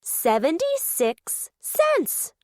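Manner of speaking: Rolly counting coins, hooting with joy; happy hoot. Acted. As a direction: savour each number with glee. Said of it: "he hooted".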